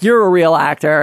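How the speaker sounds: ordinary talk, nothing marked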